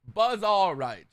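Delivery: slow drawn-out Buzz all right; Jinxie's catchphrase. Retold or imitated. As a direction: stretch it slowly like Jinxie. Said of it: "is what Jinxie would say".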